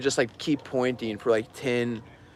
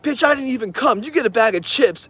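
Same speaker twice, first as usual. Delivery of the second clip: dismissive guy voice; 10 semitones higher than usual. Retold or imitated. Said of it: "he's like".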